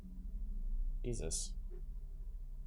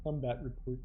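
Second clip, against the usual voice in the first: slack jaw voice; 2 semitones lower, 8 dB quieter than usual. Retold or imitated. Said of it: "He sounds so dopey".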